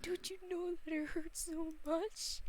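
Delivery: hurt reproach. Acted. Character confronts Kaiba, hurt.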